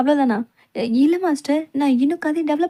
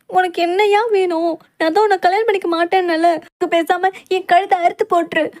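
defiant outburst; 3 semitones higher, 3 dB louder than usual. Acted. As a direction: hurl it back at him. Heroine defiant to captor.

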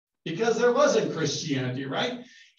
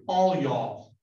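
a Southern drawl on all y'all, a touch louder; 3 semitones lower, 4 dB louder than usual. Retold or imitated. Teacher mimicking John with a Southern drawl. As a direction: lay on the Southern accent, stretch out all y'all. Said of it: "He said in good Southern drawl".

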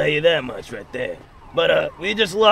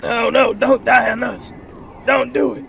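pleading granny; 7 semitones higher than usual. Acted. Granny begs friend not die.

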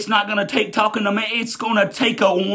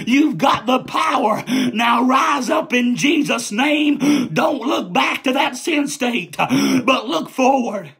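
full-force preaching; 2 semitones higher, slower than usual. Acted. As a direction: preach it out, building to a shout. Preacher calling the church to rise.

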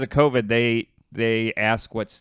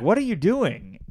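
imitating Corden; 6 semitones higher than usual. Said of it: "We're both doing a horrible job".

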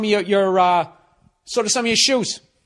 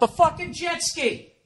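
mock disdain; 11 semitones higher, 6 dB quieter than usual. Mocking scorn at jet ski.

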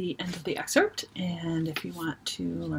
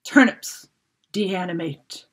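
thundering command; 4 dB louder, slower than usual. Acted. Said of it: "a voice thundered".

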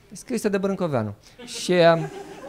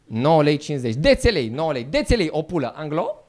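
mock Chinese accent. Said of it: "M-am dus la o doamnă".

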